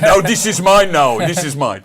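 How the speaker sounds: slow mock Russian accent. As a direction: growl it like a Russian hoarder. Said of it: "Is that your Russian accent?".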